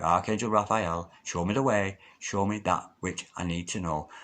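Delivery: soft, hushed invocation, falling away at the end; calling out to the archangel. Shown as a demonstration. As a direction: quietly call on Raphael as a prayer. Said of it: "Really do use your voice to call out".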